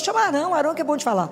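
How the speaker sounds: high-pitched reluctant excuse to God; acted pleading to send someone else; Moisés. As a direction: pass the job off, pitched well up. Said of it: "Ele falou com Deus".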